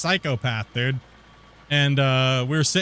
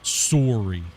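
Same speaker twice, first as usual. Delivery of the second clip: deadpan apology; much slower than usual. Retold or imitated. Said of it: "I looked her dead in the eyes".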